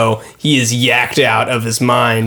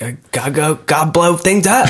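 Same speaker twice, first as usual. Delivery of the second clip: put-on whiny man-child; 3 semitones higher than usual. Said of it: "He's like".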